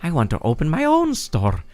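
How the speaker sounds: lightly voiced exasperated kid, leaping high at times; mildly hammed-up complaining; whiny Rito villager. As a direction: grumble dramatically about an annoying parent. Voices Faison complaining about mom.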